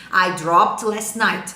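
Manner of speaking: slow, careful English; slow model sentence. Shown as a demonstration. Teacher slowly models the simple past. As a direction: say it slowly and clearly. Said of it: "at tal hora".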